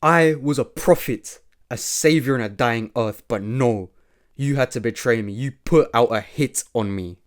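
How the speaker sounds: a hint of wounded anger; mildly heated villain. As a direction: accuse the betrayer with growing heat. Gabriel accuses Ethan, louder.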